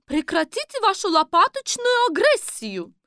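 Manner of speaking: put-on stern high English-accented teacher; english accent russian. A narrator's reading. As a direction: scold strictly with an English accent. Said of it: "строго говорила воспитательница с английским акцентом".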